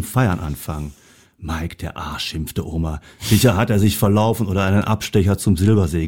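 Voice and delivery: lively storybook reading; reading a story to an audience; story narration. A narrator's reading. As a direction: read the tale aloud, animating each animal's lines. Reads a Christmas story aloud.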